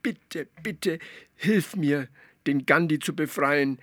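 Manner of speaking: high frog voice begging; pleading. Acted. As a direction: beg the great Zaubermilch. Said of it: "flehte Atze". (Atze fleht die Zaubermilch an, hoch und bittend)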